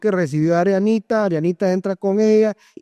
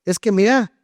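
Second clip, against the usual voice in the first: imitating her complaint; 4 semitones higher than usual. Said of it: "ya me la escuchaba".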